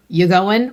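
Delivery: casual "You going?" run together as a question; casual dialect. Shown as a demonstration. Writer showing characters' different speech, casual "You going?". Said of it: "so many different ways that people say things".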